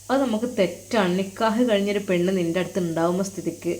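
soft, fatherly reassurance; quiet, tender advice; gentle consoling. Acted. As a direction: softly counsel a tearful pupil. Teacher comforts his crying student.

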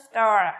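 low, drawn-out falling "Star"; falling intonation. Shown as a demonstration. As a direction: stretch "Star" downward. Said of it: "lưu ý đó".

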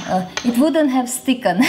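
laughing through the words; giggling at her own mistake. Real, not acted. Laughing at own grammar slip.

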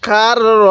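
"কার র" with a long held r; teacher's demonstration of a doubled r in "কার র". Shown as a demonstration. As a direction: roll from "কার" straight into "র". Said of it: "এই রটা আমরা দুইবার উচ্চারণ করব".

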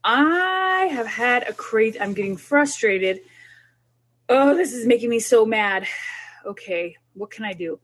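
mild demo of a frustrated parent talking aloud; talking yourself down. Shown as a demonstration. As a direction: voice the frustration, then settle it. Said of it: "Say it".

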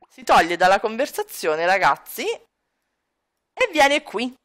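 ordinary delivery

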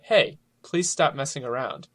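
mild, even-toned polite request; neutral, courteous delivery. Shown as a demonstration. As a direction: ask nicely for it to stop. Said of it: "how you say it, like, inflection".

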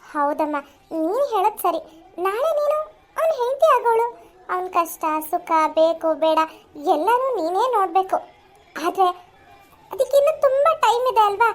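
mother gently defends her resting son; lightly voiced mother.

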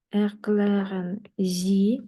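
slow, drawn-out German with a rise on Sie; slow model phrase. Shown as a demonstration. Teacher repeating the request slowly for learners. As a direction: lay it out slowly for the class. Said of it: "teacher models slowly".

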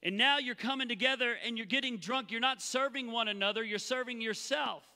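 a hint of exasperation; frustrated Paul. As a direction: scold the church. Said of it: "Paul's frustrated here".

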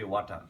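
"ওয়াটার" with an open "wa" first vowel; wrong pronunciation. Shown as a demonstration. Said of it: "which is wrong".

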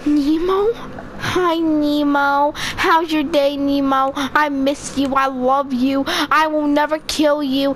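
slow, drawn-out cooing to a pet; doting pet talk. Pretend. Player greeting pet Nemo before killing it, mock-doting. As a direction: coo it slowly, laying the affection on.

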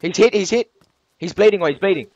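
high, loud urgent callouts; man down shout. Real, not acted. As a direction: shout the hit call excitedly. Enemy wounded, urgent callouts.

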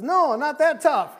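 loud, high, drawn-out objection; mock protest. Pastor voicing David when offered a slap, mock protest. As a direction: act out a friend objecting loudly.

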